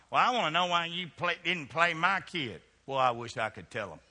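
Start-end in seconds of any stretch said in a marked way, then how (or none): 0.1-2.6 mock complaining mom. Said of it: "All these moms".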